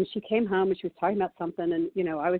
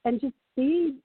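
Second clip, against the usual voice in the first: put-on pleading teen; 4 semitones higher than usual. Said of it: "But it's like".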